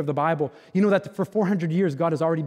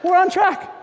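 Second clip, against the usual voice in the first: mock cheer; 13 semitones higher than usual. Dad joking with his boys, hammed-up cheering. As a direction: crow it like a goofy cheering father.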